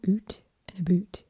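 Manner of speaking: Canadian accent, OOT and BOOT with a long oo. Shown as a demonstration. Showing viewers what makes Canadian different, Canadian accent. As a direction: say out and about the Canadian way. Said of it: "that's Canadian, isn't it?".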